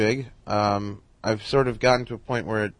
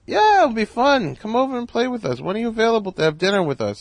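imitating Carl Reiner; 12 semitones higher, 4 dB louder than usual. Carl invites him to dinner.

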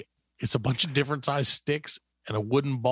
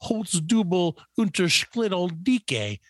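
slow, drawn-out mock German ad read; confidently mangled German with a heavy American tongue; 3 semitones higher than usual. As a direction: read out pretend German product copy with confidence. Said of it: "because I speak flawless German".

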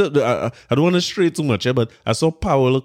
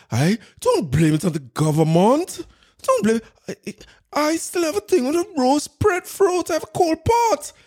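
high mock politician voice, much higher; mocking the minister. Host mocking the minister's coal pot speech, high mock voice. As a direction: parody the minister's pompous line. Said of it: "the way they talk".

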